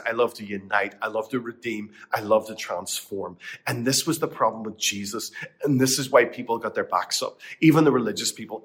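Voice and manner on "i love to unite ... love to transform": softer, lower voice of the Lord; tender, hushed divine voice; the Lord speaking. Acted. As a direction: speak gently as God. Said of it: "But the Lord says".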